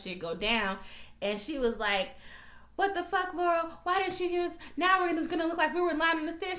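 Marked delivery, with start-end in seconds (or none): 2.8-6.6 high-pitched imitation of an upset accuser; indignant complaint. Michaela confronting Laurel after the testimony, indignant imitation. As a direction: retell a protest in a raised, complaining pitch.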